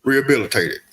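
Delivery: Morgan Freeman voice. Acted. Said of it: "you started off with an excellent Morgan Freeman voice".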